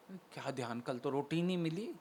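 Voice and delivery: a sly aside nobody should hear; sarcastic mutter. Acted. (भगत की धीमी ताने भरी बुदबुदाहट)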